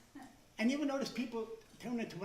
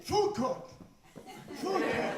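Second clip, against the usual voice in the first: higher, louder dazed chant of food court; zombie men droning; 4 semitones higher, 3 dB louder, much slower than usual. Retold or imitated. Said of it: "the men are saying".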